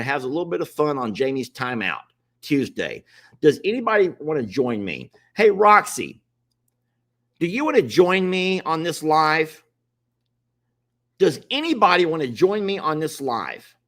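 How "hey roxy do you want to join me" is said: raised voice hailing a viewer by name; calling out. Real, not acted. Host calls out to a viewer in the chat, raised voice. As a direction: call her name out across the room.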